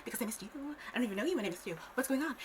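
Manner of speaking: very high opening, plaintive; mock plea to the departing dad; mock pleading child. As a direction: plead like a wounded kid. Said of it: "I'm like".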